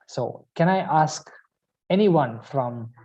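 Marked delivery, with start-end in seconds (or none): none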